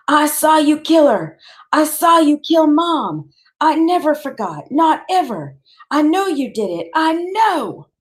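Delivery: high, loud, raw accusing cry; screamed accusation. A narrator's reading. Boy screams at his father that he saw the murder, high and raw. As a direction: hurl the accusation at him with everything. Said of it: "keep screaming".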